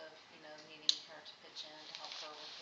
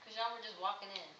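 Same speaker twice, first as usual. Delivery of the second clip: excited exclaim; 6 semitones higher, 7 dB louder than usual. Real, not acted. Grandma exclaims amid laughter.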